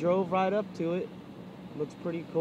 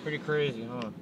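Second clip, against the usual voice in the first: talking round a cigar; words through a cigar clamped in teeth; cigar in mouth; 4 semitones lower than usual. Real, not acted. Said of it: "I have a cigar in my mouth".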